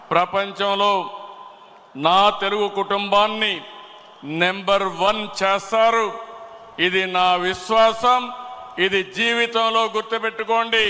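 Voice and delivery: real speech-maker's ringing conviction; rousing declaration. Real, not acted. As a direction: build to an emphatic climax, phrase by phrase. Climax of a political speech.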